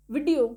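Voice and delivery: वीडियो with a short first "i", vi-di-o; quick, short first syllable on वीडियो; correct short vowel. Shown as a demonstration. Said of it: "इसे पढ़ते हैं वीडियो".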